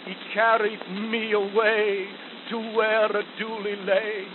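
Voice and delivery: rhythmic ballad recital in a soldier's voice; poem recitation. Acted. Reciting Kipling's soldier ballad to listeners, rhythmic. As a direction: recite the verses with a steady marching beat.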